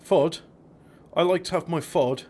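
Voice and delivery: FOD said with a short open o for food; mock mispronunciation. Cook plays along with friend's correction, mock mispronunciation. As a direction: swap food's oo for an o in "Fod". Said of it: "You didn't say Ford".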